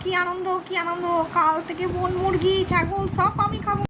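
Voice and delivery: a greedy fox relishing his trick; gleeful fox. Acted. Fox gloats alone. (উঁচু গলায় খুশিতে ডগমগ লোভী শিয়াল)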